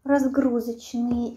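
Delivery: talking around food; mouth full, chewing. Real, not acted. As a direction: finger at lips, chewing. Seen 0: Forkful taken at -2; cheek full, finger at lips while speaking.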